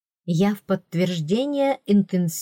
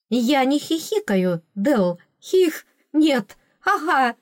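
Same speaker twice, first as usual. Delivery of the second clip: denial breaking into giggles, rising higher; giggling denial; 6 semitones higher, slower than usual. A narrator's reading. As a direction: protest while a giggle slips out. Heroine protesting through giggles. (отрицание сквозь смешок)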